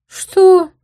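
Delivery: high, loud mock surprise; sarcastic what; feigned surprise. A narrator's reading. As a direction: act shocked. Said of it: "нарочито удивлённое лицо".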